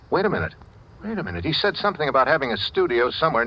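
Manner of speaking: sudden realization. Acted. He suddenly remembers something.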